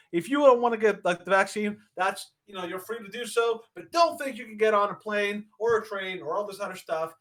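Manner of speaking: mildly worked-up lecturing; mock tirade. Host retells a leader's warning to the unvaccinated, mock tirade. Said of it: "went on this tirade saying".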